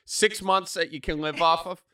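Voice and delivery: lightly voiced dad pressing about savings; bored dad. Dad quizzing his kid about the bank account, lightly mock-paternal. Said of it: "Dad, bored in the car".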